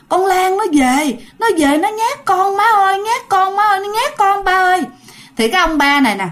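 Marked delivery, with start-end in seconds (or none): 0.1-4.8 high, frightened wail to parents; panicked telling. Acted. Sister-in-law telling her parents Lan came back, panicked. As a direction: tell them the ghost came, frightened.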